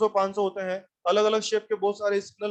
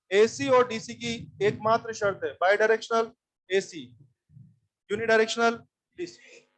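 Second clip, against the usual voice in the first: slow, word by word rule; slow teaching emphasis; slower than usual. Shown as a demonstration. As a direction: spell the rule out slowly for the class. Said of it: "teacher spells out the rule".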